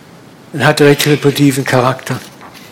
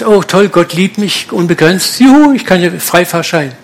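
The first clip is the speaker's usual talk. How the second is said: mock glee; 3 semitones higher than usual. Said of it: "Du sagst".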